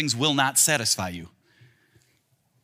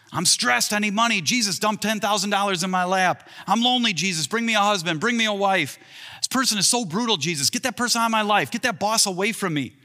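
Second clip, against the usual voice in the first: higher, pushy list of demands; higher voice, rattling off wants; demanding prayer; 6 semitones higher than usual. Retold or imitated. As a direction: pester Jesus like a needy kid. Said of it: "When we come to Jesus like this".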